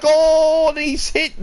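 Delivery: loud high burst of shock; surprised shout. Real, not acted. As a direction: cry out at the contact. Car hits the Williams again.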